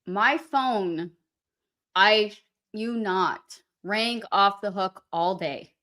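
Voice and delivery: talking through a mouthful; slow words round a bite of food; chewing while talking. Real, not acted. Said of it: "I'm sorry for the chewing noises".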